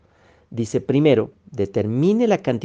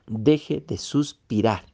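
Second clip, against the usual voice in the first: Deje de suspirar said slowly, each word weighed; slow down on Deje de suspirar and lean into it; slow, deliberate repeat; slower than usual. Shown as a demonstration. (Deje de suspirar, lento y pausado)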